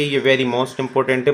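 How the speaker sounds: very most important है spaced out very slowly; teacher underlining an exam point slowly; emphatic slow. Shown as a demonstration. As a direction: lean on every word of very most important.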